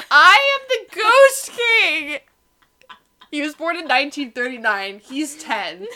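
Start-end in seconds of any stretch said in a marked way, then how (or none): 0.1-2.2 booming, slow, high proclamation; slow theatrical villain menace. Retold or imitated. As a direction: declare it like a tiny tyrant. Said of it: "this little Italian runt goes".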